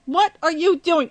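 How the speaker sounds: laughing what-are-you-doing; laughing disbelief. Retold or imitated. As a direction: relive the shock through giggles. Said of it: "I was like".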